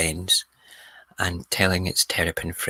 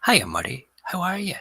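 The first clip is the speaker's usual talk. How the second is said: mock-casual greeting, lifting high at the end; perfectly normal tone; 12 semitones higher than usual. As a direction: imitate a suddenly chatty neighbour. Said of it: "in a perfectly normal tone".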